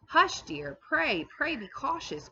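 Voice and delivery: high, pleading hush; anxious, high-pitched cry to hush a friend; urgent cry. A narrator's reading. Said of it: "cried Lucy".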